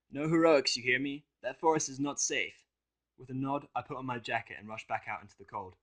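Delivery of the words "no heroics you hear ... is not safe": higher, slow stern caution; Vinyl's voice. Acted. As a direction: warn him to be careful.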